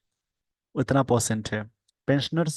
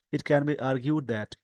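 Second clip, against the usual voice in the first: slow dictation; much slower than usual. Shown as a demonstration. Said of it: "slow dictation reading".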